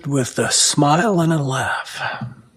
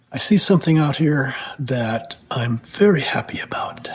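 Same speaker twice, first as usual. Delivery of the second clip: whispering. Real, not acted. Quiet admiring aside.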